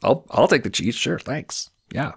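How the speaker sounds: high, eager, gushing elf voice. Acted. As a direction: snap up the cheese with glee.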